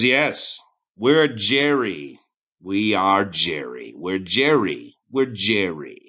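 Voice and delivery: slow, drawn-out declaration; lightly voiced odd cult leader; drunken-seeming leader. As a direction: stretch each phrase with a swooping tune. One-eyed leader answers the party.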